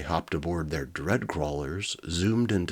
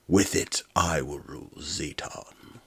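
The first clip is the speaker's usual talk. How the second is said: villain warlord voice. Acted. Warlord Nazgar boasts.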